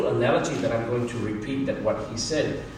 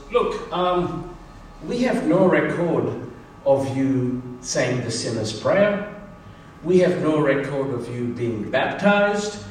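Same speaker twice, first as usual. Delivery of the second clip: mock stern angel; 4 dB louder than usual. Supervising angel questions the thief.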